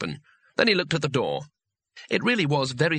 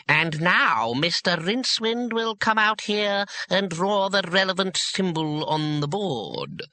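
high, slow, droning schoolmaster; dreaded old teacher; 7 semitones higher, slower than usual. A narrator's reading. Teacher summoning a pupil to the board, high slow drone. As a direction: drone it out at a raised, stretched pitch. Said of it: "and the voice saying".

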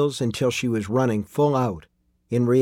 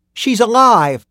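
put-on high, loud boy's cry of relief; joyful shout; 10 semitones higher, 8 dB louder, slower than usual. A narrator's reading. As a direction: shout the news out, overjoyed. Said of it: "Tim shouted".

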